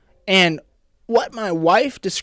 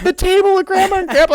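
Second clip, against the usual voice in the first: imitating sister; 12 semitones higher, 5 dB louder than usual. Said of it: "And she's like".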